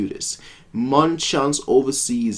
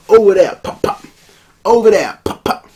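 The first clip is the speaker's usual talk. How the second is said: loud, higher game shout of Over there; excited shout; 8 semitones higher, 8 dB louder than usual. Acted. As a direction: call it out loud mid-shootout. Acting out gunfire in game.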